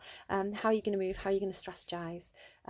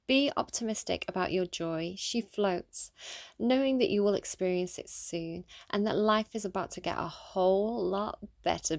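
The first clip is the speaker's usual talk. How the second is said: storytelling narration; slower than usual. Acted. Storytelling mode reading the card.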